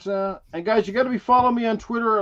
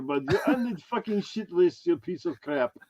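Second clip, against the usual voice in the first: put-on mangled Dracula-Arnold accent; 3 dB quieter than usual. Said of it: "I don't even know what kind of accent I am trying to do here".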